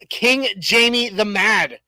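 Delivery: slow, lightly British reading of the name; a first go at a British lord; hint of a British accent, drawn out; mock British accent. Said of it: "I have to read it in a British accent".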